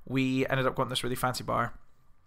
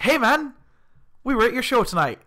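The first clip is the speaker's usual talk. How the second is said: higher-pitched, gushing hail to a musician; eager fan greeting; 7 semitones higher than usual. Retold or imitated. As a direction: call out like a keen gig-goer. Acting out greeting the drummer.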